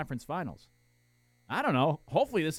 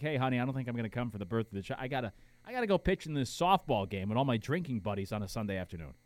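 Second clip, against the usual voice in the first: lightly acted excuse, lower and trailing off; mock sheepish husband; 6 semitones lower than usual. Husband telling wife he'll miss the birth, lightly mock sheepish. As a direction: play at begging off, pitched down.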